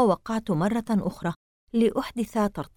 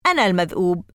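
shout; 4 dB louder, faster than usual. A narrator's reading. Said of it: "وأخذ يصيح قائلًا".

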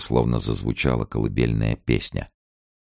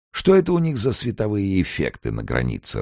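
put-on higher, fussy old man musing; old emigrant voice; 8 semitones higher than usual. A narrator's reading. Morets muses about prison and reading Hemingway, higher fussy voice. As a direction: muse like a wry old grumbler. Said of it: "размышлял папаша Морец".

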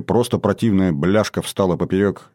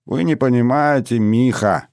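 gentle; 5 semitones higher than usual. Acted. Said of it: "мягко сказал Алон".

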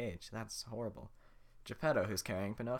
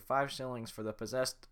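guard voice wrong; 4 semitones higher, 5 dB louder than usual. Acted. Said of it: "I forgot how to do it".

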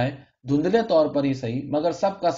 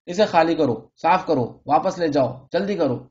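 shouting orders; 3 semitones higher than usual. Acted. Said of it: "زور زور سے چیخ رہا تھا".

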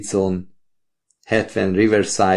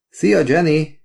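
raised, higher call across the hall; called out greeting; 8 semitones higher, 3 dB louder, slower than usual. A narrator's reading. Gate attendant calls out to Jenny across the hall, loud and high. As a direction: sing out a greeting from the desk. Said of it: "kiáltotta a kapuügyeletes".

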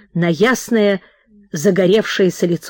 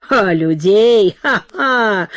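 slow scoff breaking into acted laughter; scoff, then laugh it off; 2 semitones higher, much slower than usual. Host mocking his wife's reproach, scoffing laugh.

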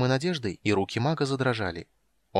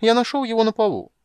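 high, loud, faux-innocent chirp; high-pitched mock-innocent kender voice; 12 semitones higher, 8 dB louder than usual. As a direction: play dumb, bright and loud.

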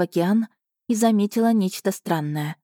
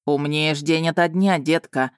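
mocking dragon call; 3 semitones lower than usual. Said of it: "крикнул мне дракон".

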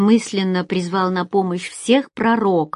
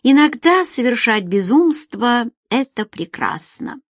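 dreamy sigh; 5 semitones higher than usual. Acted. Feride looks up from her magazine, musing, dreamy. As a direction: muse aloud, easing off at the end. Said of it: "мечтательно вздохнула Фериде".

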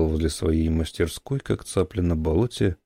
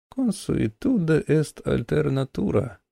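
put-on very old man; 8 semitones higher than usual. Old man quotes Latin.

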